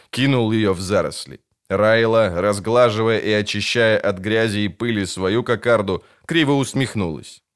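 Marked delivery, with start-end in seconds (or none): none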